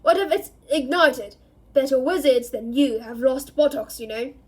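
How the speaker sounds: loud gruff scolding. Acted. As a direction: keep barking the warning. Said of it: "roared Moody".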